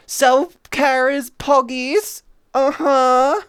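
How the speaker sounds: Self-care is poggies! cheered with a rising end; excited cheer. Shown as a demonstration. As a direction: shout it as a happy slogan. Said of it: "repeated louder".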